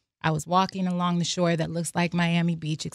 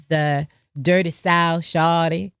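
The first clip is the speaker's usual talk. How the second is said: Southern slang; 6 dB louder, slower than usual. Retold or imitated. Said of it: "whether you're from".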